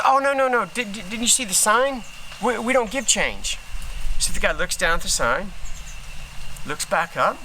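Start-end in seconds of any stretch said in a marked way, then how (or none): 0.1-3.6 mock apologetic cashier. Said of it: "He goes".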